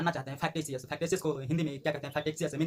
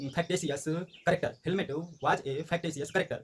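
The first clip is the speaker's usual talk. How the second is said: slow dictation; much slower than usual. Shown as a demonstration. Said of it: "English में बोलेंगे तो हो जाएगा".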